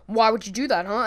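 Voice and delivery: lightly voiced tough-guy challenge; a hint of a tough guy confronting someone; imitated tough guy. Short fat guy confronts Glenn, mild imitated tough guy. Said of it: "looking at him like a tough guy".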